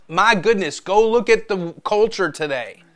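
high, loud alarmed reaction; worked-up outcry, pitched high; reacting in alarm. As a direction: exclaim it like an indignant reactor. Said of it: "We get up and we react".

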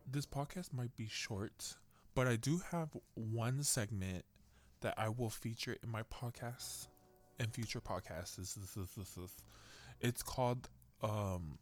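talking while chewing jerky; mouth full. Real, not acted. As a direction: speak around a mouthful. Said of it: "sorry, I was eating some jerky".

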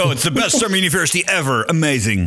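fast, high bragging; mock Trump boast. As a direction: brag like a showman. Playing along with Trump bit.

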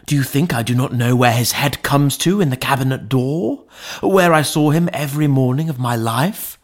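pressing, indignant questions rising at the end; impassioned cry. A narrator's reading. Butler protesting he knows his master, crying out. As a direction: plead your case with feeling. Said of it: "cried Poole".

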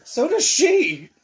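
slow, high, loud retort; drawn-out shout. Real, not acted. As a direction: stretch the words out loud. Heated joking argument.

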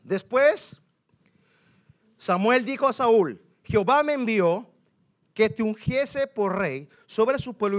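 loud, declaimed Bible verse; forceful scripture reading. Acted. Preacher reading Samuel's message to Saúl, declaiming. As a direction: proclaim each phrase with authority.

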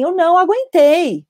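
lightly voiced guilty dad; exasperated father. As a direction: imitate a father at his limit. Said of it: "o pai fala assim".

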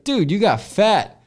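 high, slow, mocking friend's voice; blunt friend. Friend Brandon calling him fat, high and slow. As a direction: drag it out like a brutally honest buddy. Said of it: "he's like".

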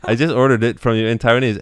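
incredulous through laughter; laughing disbelief. Retold or imitated. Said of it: "I'm like".

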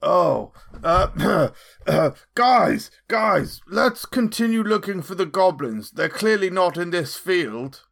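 hammed-up call to the group; feigned obliviousness. Player steers the others away from the goblins, feigned obliviousness. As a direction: call out with pretend innocence. Pretending not to see goblins, calling.

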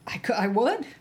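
fighting back tears, barely voiced; emotional. Real, not acted. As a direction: voice dropping to a whisper, overcome. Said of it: "I'm gonna get emotional".

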